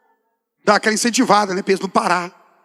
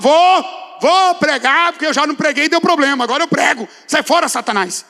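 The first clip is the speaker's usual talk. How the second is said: defiant outburst; 6 semitones higher than usual. Acted. Answering the voice that taunts him, defiantly raised. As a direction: push it high and forceful, then ease slightly.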